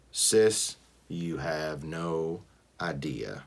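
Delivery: slow, soft groan of weariness; groaning weary. A narrator's reading. Brother to sister, a slow soft weary groan. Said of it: "I groan".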